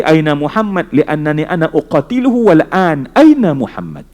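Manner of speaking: loud, aggressive; hostile demand. Acted. Umar earlier demanding the Prophet to kill him, loud hostile. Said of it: "Intonasi dia berubah dah".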